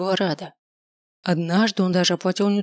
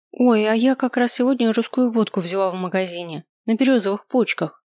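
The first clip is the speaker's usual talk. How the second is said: воскликнула; 3 semitones higher than usual. Acted. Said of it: "воскликнула Даша".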